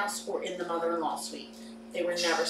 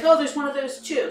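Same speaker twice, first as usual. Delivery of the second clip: ex-husband voice; 7 semitones higher, 7 dB louder than usual. Retold or imitated.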